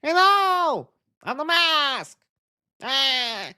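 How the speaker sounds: mock Aziz voice introducing himself as the Mask. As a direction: pitch it way up like a cartoon hero. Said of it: "Aziz would be so weird as, like, The Mask".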